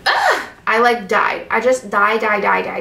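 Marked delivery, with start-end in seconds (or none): 0.1-0.5 sharp delighted squeal; giddy squeal; high squeal. Real, not acted. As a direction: squeal like you can't contain it. Squealing at Disney stickers.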